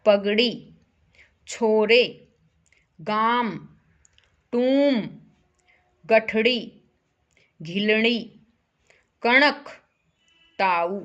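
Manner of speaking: one word at a time with long pauses; word-by-word dictation. Shown as a demonstration. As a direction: say each word distinctly for repeating. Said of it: "मेरे पीछे पीछे बोलो". (एक-एक शब्द रुक-रुक कर बोलें)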